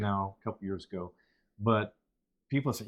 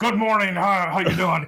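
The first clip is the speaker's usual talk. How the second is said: mock over-the-top DJ voice, higher and louder; 8 semitones higher, 10 dB louder than usual. Retelling a morning show host who overdid it: imitating an overdone morning radio host. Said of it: "he kinda overdid it".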